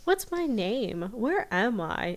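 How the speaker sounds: slow dazed questions; confused. Retold or imitated. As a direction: ask slowly, lost and dazed. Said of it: "Ivan's like".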